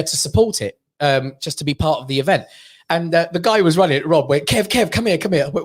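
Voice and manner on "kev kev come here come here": urgent, higher-pitched summons; calling someone over. Retold or imitated. Event runner calls Kev over, urgent summons. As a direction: beckon a mate over in a hurry.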